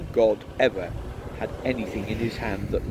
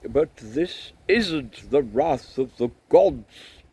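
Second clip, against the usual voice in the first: slow, raised-voice protest; emphatic, drawn-out correction; calling for silence; 5 semitones higher, 7 dB louder, much slower than usual. A narrator's reading. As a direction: insist over a noisy crowd. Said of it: "frantically for silence".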